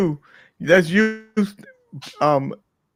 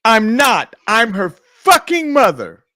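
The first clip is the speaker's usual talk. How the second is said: louder, higher indignant retort, slowing down; punchline; 4 semitones higher, 4 dB louder, slower than usual. Acted. The offended mother corrects the joke-teller, indignant. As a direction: land the punchline with offended force. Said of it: "So I said".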